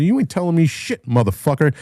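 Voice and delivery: high-pitched retold defiance; angry comeback. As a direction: re-enact an outraged retort.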